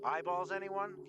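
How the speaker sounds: slow, high vendor-like call. A narrator's reading. Trader offering eyeballs to anyone around, in a high drawn-out call. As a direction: draw it out high to carry. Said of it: "came a call".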